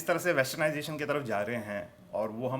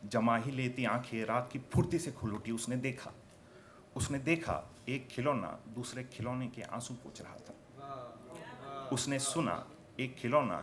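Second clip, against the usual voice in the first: poetry recitation; 3 dB quieter, slower than usual. Acted. Poet reveals one toy comforting another, hushed recitation. Recites poem on captive toys.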